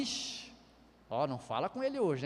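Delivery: half-whispered ixi then a soft warning; hushed warning. Retold or imitated. Wife quietly warning family about grumpy husband, hushed. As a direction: warn under your breath. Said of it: "a esposa já sabe".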